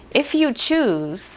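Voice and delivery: slow, hopeful asking; slow plea. Acted. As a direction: plead slowly, rising at the end. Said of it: "the leper says".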